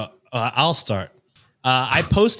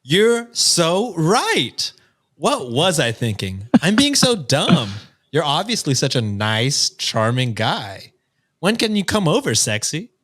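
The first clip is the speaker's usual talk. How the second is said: sarcastic; 2 semitones higher than usual. Acted. Sarcastic reply to neckbeard.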